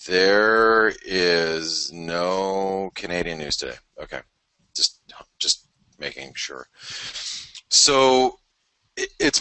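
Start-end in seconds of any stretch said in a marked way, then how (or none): 0.1-3.8 every word drawn out slowly; slow down and confirm it firmly; slow and deliberate. Real, not acted. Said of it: "let me double check that".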